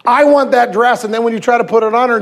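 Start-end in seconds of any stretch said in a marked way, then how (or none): 0.0-1.0 slow, louder demanding "want"; mock toddler scream. Pastor imitating his daughter Mary's screaming demand. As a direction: ham up a toddler's yell. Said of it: "Mary screaming at the top of her lungs".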